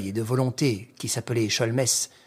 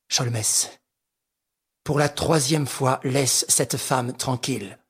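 coldly; slower than usual. Acted. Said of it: "et froidement".

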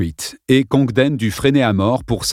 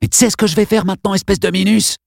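mustache twirling villain; 3 semitones higher, faster than usual. Acted. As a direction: rush the threat, then sneer. Congdon threatening Dale with knife.

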